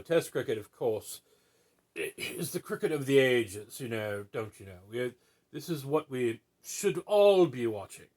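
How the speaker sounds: a lightly put-on mid-Atlantic snob accent. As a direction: play a mid-Atlantic cricket purist, half-joking. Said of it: "I can't do a mid-Atlantic accent".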